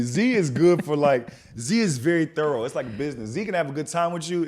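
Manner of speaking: a hint of mimicking a friend's confident tone; impression of friend. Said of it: "this is my impression of Z".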